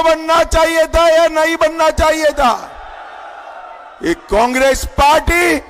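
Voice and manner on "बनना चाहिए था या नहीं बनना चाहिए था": shouted higher, rousing the crowd; shouted repeat. Real, not acted. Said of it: "जोर से बोलो". (ज़ोरदार दोहराया सवाल)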